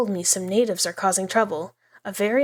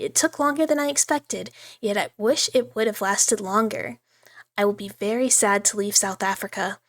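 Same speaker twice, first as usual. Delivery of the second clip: diary reading. Acted. Reads diary entry aloud.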